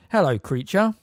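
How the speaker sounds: very loudly. A narrator's reading. Twin startling the muttering elf, loud greeting. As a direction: call it out to make him jump. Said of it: "said Fred very loudly".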